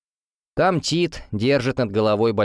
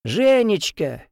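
shouting; 10 semitones higher, much slower than usual. A narrator's reading. Grandfather shouts her name from the window. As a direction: stretch the name out as a call. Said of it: "кричит Де".

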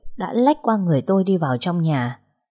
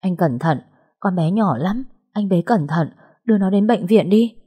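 trembling voice. Acted. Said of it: "run rẩy nói".

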